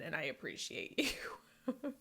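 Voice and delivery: soft, slow whispered thank-you. Real, not acted. Vlogger whispering heartfelt thanks to her viewers, softly. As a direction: breathe it out like a secret gratitude.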